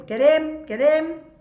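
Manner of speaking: high, loud calling of a name; shouted summons. A narrator's reading. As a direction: shout for a servant who is out of sight. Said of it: "El grito de César".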